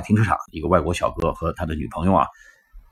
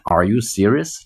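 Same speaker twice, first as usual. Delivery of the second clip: incredulous demo; 2 semitones higher, slower than usual. Shown as a demonstration. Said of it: "有没有搞错呀".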